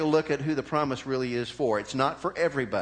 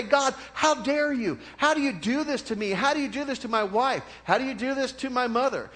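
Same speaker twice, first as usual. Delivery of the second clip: mock angry prayer; 8 semitones higher than usual. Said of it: "get upset and angry with God and say".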